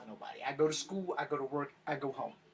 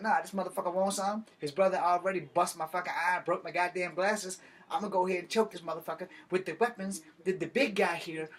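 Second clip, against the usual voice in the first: defiant rant; 4 semitones higher, 3 dB louder than usual. Retold or imitated. Acted defiant retort to cop.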